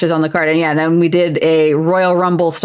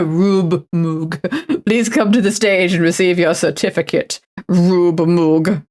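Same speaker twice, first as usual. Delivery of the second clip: hammed-up award presenter; mock ceremony announcer. Presenter calling Moog up for a certificate, mock announcer. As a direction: summon the winner to the stage.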